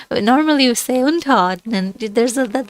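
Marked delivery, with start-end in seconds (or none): 1.0-1.9 unterordnen with the weight on unter; stressed prefix unter. Shown as a demonstration. Teacher showing the class where the stress falls, stress on unter. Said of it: "that bit of an emphasis there".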